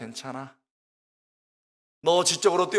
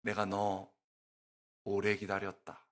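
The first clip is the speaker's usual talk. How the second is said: much lower and much softer, a hushed divine voice; voice of the Holy Spirit; 9 semitones lower, 9 dB quieter than usual. Retold or imitated. Preacher voicing God welcoming him home, low and hushed. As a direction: breathe it like God welcoming a long-awaited son. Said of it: "저를 탁 마음속에 이 충격을 줬어요".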